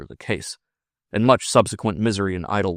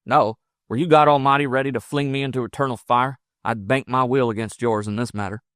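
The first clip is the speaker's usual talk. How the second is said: a touch of raised, forceful frontiersman; defiant frontiersman; 4 semitones higher, 4 dB louder than usual. Acted. Lover defying the priest over the woman, mildly heated. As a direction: defy him with mild heat.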